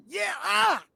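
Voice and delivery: high squeaky mouse yelp; mouse voice shout. Acted. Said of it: "squeakier and high-pitched in mouse voice".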